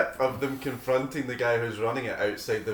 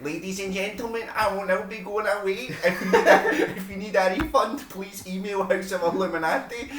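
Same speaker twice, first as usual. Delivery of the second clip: much higher mock announcer, laughing through it; pompous announcer; 9 semitones higher than usual. Mocking the organiser telling customers to email for refunds, laughing. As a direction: ham up a stiff farewell speech. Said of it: "he's like".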